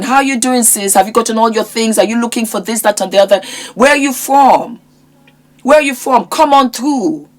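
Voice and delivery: lightly voiced eager welcome to a customer; mildly bright hello, come on through; welcoming shop greeting. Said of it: "if I find out that you're American".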